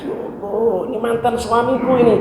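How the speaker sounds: a wife's soft teary cry at seeing her ex. Retold or imitated. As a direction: speak through tears, hushed. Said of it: "dia nangis".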